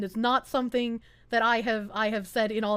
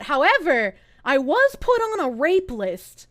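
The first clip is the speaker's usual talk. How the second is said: ordinary talk, nothing marked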